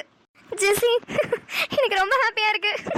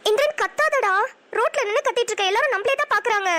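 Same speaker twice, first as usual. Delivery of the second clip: anxious pleading; 3 semitones higher than usual. Acted. Pleading him not to shout.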